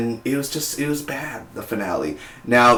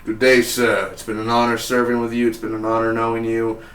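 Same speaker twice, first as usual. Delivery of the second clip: formal farewell. Retold or imitated. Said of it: "sort of like".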